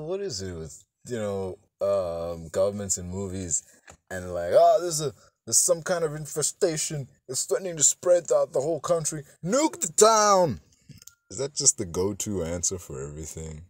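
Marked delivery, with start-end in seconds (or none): 4.5-10.6 high, mock-urgent official; hammed-up government panic; alarmed official. Acts out panicking movie government.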